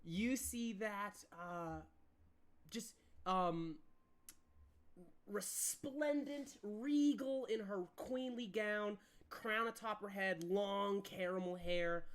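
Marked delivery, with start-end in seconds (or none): 5.3-12.1 slow, savoring description of the queen; slow scene narration. A narrator's reading. Game master describing the queen, slow and grand. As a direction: paint her grandly, unhurried.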